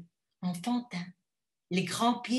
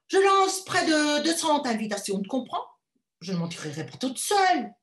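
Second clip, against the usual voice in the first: proud mother; 6 semitones higher, 7 dB louder than usual. Acted. Mother boasting of her ball.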